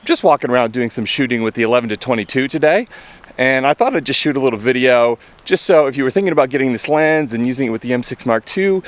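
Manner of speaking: slightly winded, breathing through smoke; short of breath. Real, not acted. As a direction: talk while a bit out of breath. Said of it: "I sound a bit short of breath".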